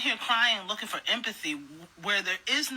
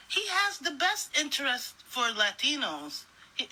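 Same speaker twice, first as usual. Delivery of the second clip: lightly voiced fool, pitched up; halting, higher parody of muddled conviction; mock gullible voter; 6 semitones higher than usual. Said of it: "in my stupid ass mind".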